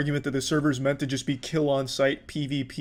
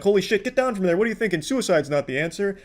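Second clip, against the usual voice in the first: hammed-up fake shock, pitched higher; mock YouTuber outrage; 6 semitones higher than usual. Scammy channel host faking alarm for the camera, mocking. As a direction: play a phony rescuer gasping for views. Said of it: "be like".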